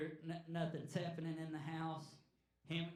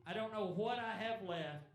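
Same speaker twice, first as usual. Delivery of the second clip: raised, earnest plea, a little higher; pleading cry to God; 4 semitones higher than usual. Retold or imitated. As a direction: cry out to God with nothing left. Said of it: "he's crying out and he says".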